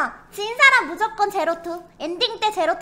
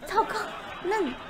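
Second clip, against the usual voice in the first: stifled giggles; 6 dB quieter, much slower than usual. Real, not acted. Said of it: "너 웃었어?".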